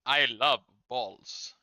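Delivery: put-on slow, drawn-out Korean accent; very slowly, in a caricature Korean accent; mock Korean accent. Team America quotes.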